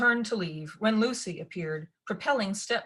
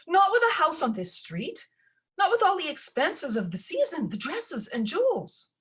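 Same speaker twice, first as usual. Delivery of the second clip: wailing stepmother; 11 semitones higher, 4 dB louder than usual. A narrator's reading.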